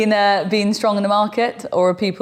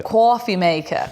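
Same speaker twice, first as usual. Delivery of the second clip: "Coffee maker" drawn out slowly, Brooklyn "kwawfee"; Brooklyn accent; 3 semitones higher, slower than usual. Pretend. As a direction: say "Coffee maker" like a New Yorker, slow and drawn. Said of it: "put on your Brooklyn accent and say coffee maker".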